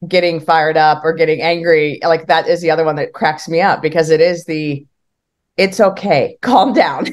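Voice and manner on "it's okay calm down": chuckling through a mock calm down; laughing mock soothing. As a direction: laugh while pretending to soothe. Mock soothing an angry person.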